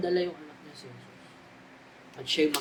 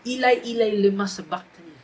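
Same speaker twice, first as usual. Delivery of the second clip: loud cry; 3 semitones higher, 7 dB louder than usual. Acted. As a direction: cry it out to God in anguish. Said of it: "With a loud voice say". (malakas na sigaw ng paghihirap)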